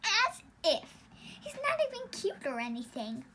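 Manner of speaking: loud, high scoff; scoffing dismissal. Real, not acted. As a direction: brush the idea off with contempt. Sister scoffs at muscle dude.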